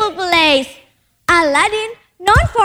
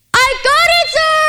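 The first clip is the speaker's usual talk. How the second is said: higher, excited call to someone outside; yelled; 8 semitones higher than usual. A narrator's reading. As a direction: call up out of the cave in triumph. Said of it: "he yelled".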